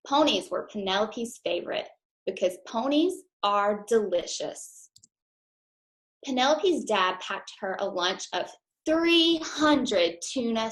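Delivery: put-on lively storybook read-aloud for kids; reading to children. A narrator's reading. Teacher reading a picture book to her class, lively storytime voice. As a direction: read it bright and bouncy to the class.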